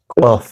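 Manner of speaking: "কফ" with a back-of-throat q; heavy, rounded q opening "কফ"; Arabic qaf. Shown as a demonstration. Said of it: "উচ্চারণটা বারবার practice করুন". (আরবি ক্বফের মতো গলার গোড়া থেকে "কফ")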